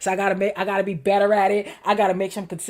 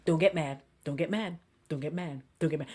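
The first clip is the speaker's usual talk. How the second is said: softly, talking herself down; quiet self-talk; 7 semitones lower, 8 dB quieter than usual. Shown as a demonstration. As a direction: murmur it to yourself to stay calm. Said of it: "Internally, I say to myself".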